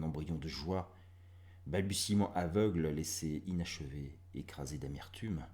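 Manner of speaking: grave, measured verse reading; poetry read with fading line endings; poem recitation. Acted. Reads second poem.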